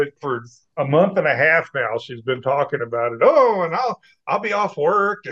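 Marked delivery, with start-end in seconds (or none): 3.2-5.2 imitated anticipation. Retells her excited anticipation.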